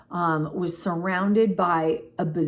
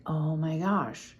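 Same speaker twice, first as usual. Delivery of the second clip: whisper; 3 semitones lower, 6 dB quieter, slower than usual. Retold or imitated. Whispered realization of being high.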